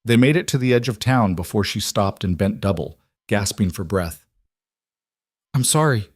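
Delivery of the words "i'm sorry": choked up. Acted. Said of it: "she choked out".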